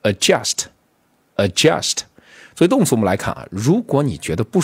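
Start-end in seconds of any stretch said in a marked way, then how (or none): 0.0-2.0 adjust said slowly twice, stress on JUST, pausing between; read-along model. Shown as a demonstration. Teacher has students read along, slow adjust with stressed JUST. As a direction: model "adjust" for repeating, second syllable stressed. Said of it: "跟我再读一遍".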